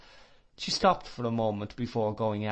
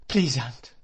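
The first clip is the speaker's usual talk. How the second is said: louder sobbing appeal; sobbing plea; 2 semitones higher, 4 dB louder than usual. Acted. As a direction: sob out a plea to her aunt. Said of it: "sobbed Emily".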